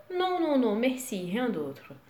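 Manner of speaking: Non non non then "rien d'autre" falling; answering tune. Shown as a demonstration. Customer answering the waiter, falling tune. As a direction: answer firmly with a falling close. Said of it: "A diferença vai ser a entonação".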